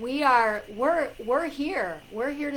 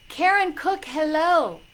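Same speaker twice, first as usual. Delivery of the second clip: high, loud welcome; excited greeting call; 6 semitones higher, 8 dB louder than usual. Real, not acted. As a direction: hail a newcomer with delight. Greets another viewer arriving.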